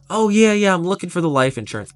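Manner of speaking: eager client. Retold or imitated. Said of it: "she would be the interested buyer".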